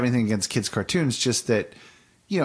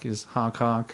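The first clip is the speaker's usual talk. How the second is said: honking noise; 6 dB quieter than usual. Retold or imitated. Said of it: "There's this one Snork that was like".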